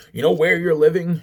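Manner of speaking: retelling a phone fight, disbelieving high question; incredulous high question. Retold or imitated. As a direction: ask it high, stunned he doesn't know. Heated phone argument retold.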